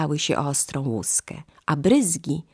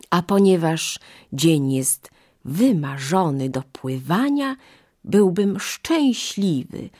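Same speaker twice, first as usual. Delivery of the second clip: a lightly voiced crocodile, sweet and slow; sly crocodile; slower than usual. Crocodile luring the monkey onto his back, sly and sugary. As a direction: coax her in like a smooth-talking crocodile.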